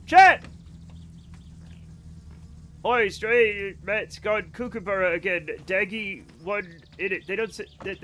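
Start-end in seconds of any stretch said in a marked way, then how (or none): 0.0-0.4 loud high shout to the chat; sudden high-pitched exclamation; excited call. Real, not acted. 2.8-7.3 slow, hammed-up Australian accent; drawn-out attempt at Australian slang and accent; mock Australian accent. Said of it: "that's absolutely not Australian".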